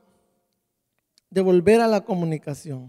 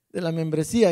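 riendo; 4 semitones lower than usual. Real, not acted. Se ríe de la lista perdida.

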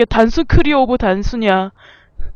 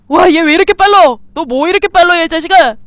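amazed exclaim; 4 semitones higher, 5 dB louder than usual. Real, not acted. Rabbit too fast, exclaiming.

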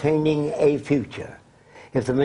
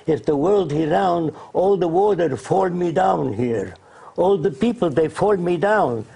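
put-on Arab-accented broken English; 3 semitones higher than usual. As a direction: retell the leader's flat-earth reasoning in his accent, unhurried. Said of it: "He said in his accent".

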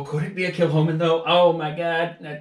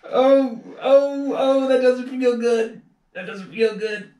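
high, slow pained groaning; hissing in pain; 10 semitones higher, slower than usual. Real, not acted. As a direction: breathe through the sting, drawn out. Still stinging from the shot.

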